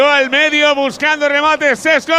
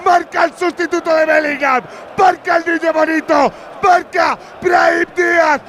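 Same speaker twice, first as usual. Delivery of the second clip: breakneck goal commentary; 7 semitones higher, slower than usual. Real, not acted. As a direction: call the replay at full voice. Goal replay, commentator shouting.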